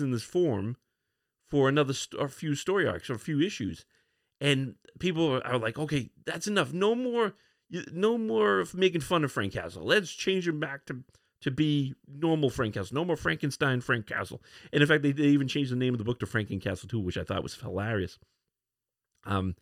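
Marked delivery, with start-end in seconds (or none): 5.8-14.4 fed-up fans. Acted. Acts out fed-up fans' complaint.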